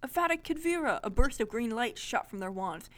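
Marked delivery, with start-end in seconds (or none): 0.0-1.0 high-pitched spell incantation; group spell cry. A narrator's reading. Kids cast the spell together, exclaiming. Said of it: "all said at the same time".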